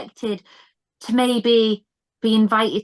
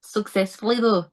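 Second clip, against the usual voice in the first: Scottish accent. Shown as a demonstration. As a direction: echo "Successfully, though" in a Scottish accent. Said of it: "I'm so bad at accents".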